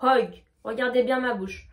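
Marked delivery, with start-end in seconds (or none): 0.0-0.4 Hug with a full rounded o; O vowel. Shown as a demonstration. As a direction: Hug pronounced "hog". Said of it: "on va bien prononcer le O".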